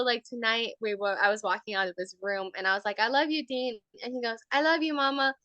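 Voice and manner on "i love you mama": slightly higher, lightly voiced child; toddler's first try. Toddler answers mom at bedtime, lightly voiced child. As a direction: imitate a small child at normal volume. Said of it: "he just kept saying it louder and louder".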